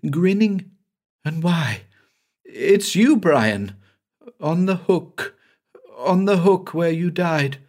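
high, horrified voice facing a dead man; frantic terror at the man he killed; shrieking in horror. A narrator's reading. Banks sees the dead Brian in the cellar, high horrified cries. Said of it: "he began to shriek".

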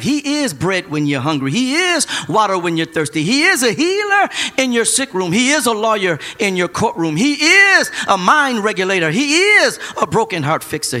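rhythmic rising preacher cadence; preaching litany. Real, not acted. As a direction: roll through each title with building punch.

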